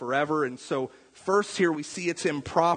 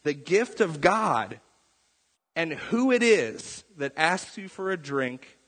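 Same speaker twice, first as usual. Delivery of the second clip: slow, solemn words of Jesus; preacher voices Jesus' reply to the woman, slow and solemn; Jesus' slow answer; slower than usual. Retold or imitated. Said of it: "Jesus answers and he says".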